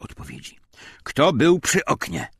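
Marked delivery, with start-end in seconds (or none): 1.0-2.3 loud, high demanding yell; shouting interrogator. A narrator's reading. SS officer storming into the classroom, shouting. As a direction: bark the accusation at the room.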